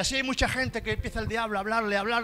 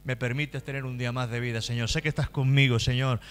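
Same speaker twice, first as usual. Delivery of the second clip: low, murmured personal prayer; low-voiced prayer running on steadily; morning prayer; 6 semitones lower than usual. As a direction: pray it privately to the Lord, pitched down.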